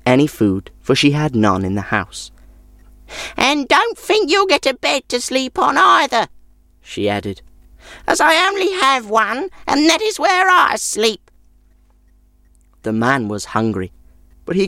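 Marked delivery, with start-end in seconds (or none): 3.4-6.3 high crone voice, sour and grudging; sour old woman. A narrator's reading. Old woman refusing the traveller a bed, high sour crone voice. 8.0-11.3 high crone voice, sour and grudging; sour old woman. A narrator's reading. Old woman refusing the traveller a bed, high sour crone voice.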